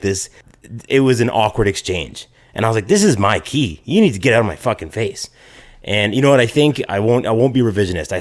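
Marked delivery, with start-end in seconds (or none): 2.9-5.3 mildly heated retold retort; confrontational retort. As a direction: stand your ground, only a touch of anger. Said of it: "polite at this point".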